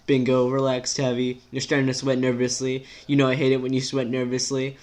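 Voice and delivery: lightly voiced, exasperated rant; exasperated character. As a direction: vent the worries in an unbroken rush.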